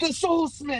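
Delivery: shrill, very high shrieking scream. Voicing an acolyte who spots the enemy: screaming acolyte. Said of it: "one of them screams out".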